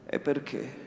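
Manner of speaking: fearful defiance. Acted. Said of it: "con una voce in cui, col tremito della paura".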